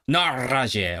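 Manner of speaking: "razie" with a strong rolled r, stressed; emphatic trill. Retold or imitated. Learner demos an emphatic Polish trill, rolled r in "razie". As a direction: roll the r in "razie" hard for emphasis. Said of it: "like, very emphatic".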